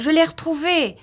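high-pitched triumphant exclamation; crying out. A narrator's reading. Wife finding the lost parcel, excited high cry. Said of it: "s'écria-t-elle".

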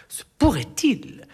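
hushed, breathless whisper of suspicion. A narrator's reading. Narrator whispering a dark suspicion. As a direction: breathe the words as a secret.

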